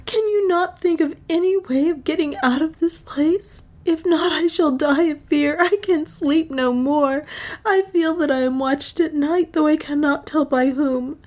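high-pitched tearful woman's lament; weeping bitterly. A narrator's reading. Juana begs Leonard for a way out, weeping. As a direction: plead high, as if through tears. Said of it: "weeping bitterly".

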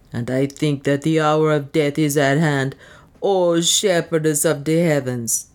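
resigned servant with a hint of accent; humble dwarf, fatalistic.

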